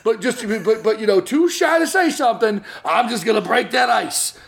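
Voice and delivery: lightly put-on New Jersey accent, fast; slimy New Jersey wise guy, laughing. Cousin pitching himself, mock New Jersey accent. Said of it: "I have a New Jersey accent all of a sudden".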